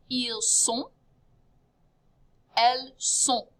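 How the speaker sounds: "sont" ends on a nasal o, no t; nasal ending. Shown as a demonstration. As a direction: model "Ils sont" with a nasal on and silent t. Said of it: "You end with that nasal ho".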